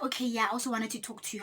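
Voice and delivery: fast, hushed whisper; quick whisper. Retold or imitated. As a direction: rush it under your breath. Friend answers secretly.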